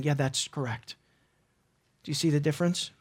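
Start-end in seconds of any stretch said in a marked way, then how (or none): 0.0-1.0 low, quiet flat answer; a hint of Sapphira, low and quiet; Sapphira's low reply. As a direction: mutter a soft yes. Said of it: "she was saying".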